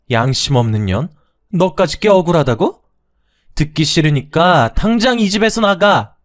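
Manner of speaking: high, loud, bitter accusation; blaming mother-in-law. Acted. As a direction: spit the blame at her. Mother-in-law orders her out.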